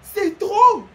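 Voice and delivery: amused gamer rant; laughing exasperation. Real, not acted. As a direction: laugh while complaining to viewers. Laughing recap to viewers.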